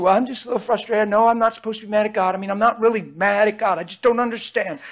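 lightly voiced whiny congregant; imitating a frustrated churchgoer. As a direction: play the grumbling counselee, half-mocking. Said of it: "That thing I just imitated".

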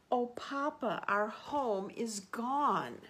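high, mock-upset child's wail; playing the upset little possums; cried. Baby possums cry to their father, high mock wail. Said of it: "cried the young possums".

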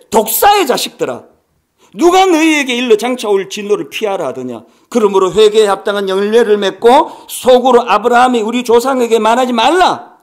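loud preached rebuke from the pulpit; thundering scripture. Acted. Preacher voicing John denouncing the crowd, loud and forceful. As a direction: hurl John's words like a prophet's charge.

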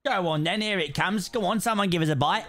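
light mock Cockney accent; put-on Cockney. Sheep player fishing for a bite, playful Cockney accent. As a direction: play a Cockney angler coaxing a bite. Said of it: "I've become Cockney".

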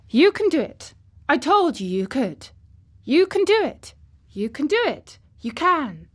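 high, loud, willing him on; Mary urging Colin to stay on his feet, fervent; urgent encouragement. Acted. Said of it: "muttering something under her breath".

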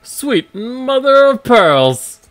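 astonished. Acted. Amazed at finding the egg.

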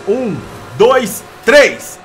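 loud rising count to three; shouted countdown; race countdown. Real, not acted. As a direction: call the start of the race.

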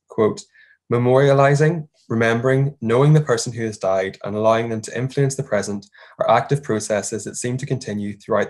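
measured academic read-aloud, key words stressed; formal paper reading. Acted. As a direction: read a conference paper out clearly.

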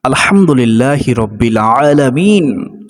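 drawn-out, devout recital of the Arabic phrase; unhurried Quranic-style recitation; slow Arabic recitation. Shown as a demonstration. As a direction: recite it slowly as in prayer. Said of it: "এটা বলে আল্লাহর প্রশংসা করা যাবে যে".

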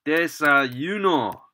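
desayuno said slowly, syllable by syllable; slow model word. Shown as a demonstration. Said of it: "So then is".

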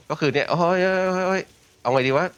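high, hammed-up flustered cries of oy oy; mock panic. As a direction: play it like you're scrambling in a fight. Streamer acts out panic mid-fight.

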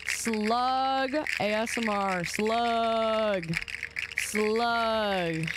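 "Slug" stretched long and slow; drawn-out word. Real, not acted. Streamer insisting on slug to chat, drawn out. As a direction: hold the vowel in "Slug".

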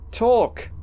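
high, sudden demand; one sharp high-pitched order; demanding outburst. Acted. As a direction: demand an answer, pitch jumping up. Demanding answers from the ghost.

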